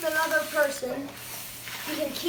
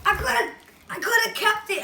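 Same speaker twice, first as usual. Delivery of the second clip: laughing; 4 semitones higher, faster than usual. Real, not acted. Regrets not keeping.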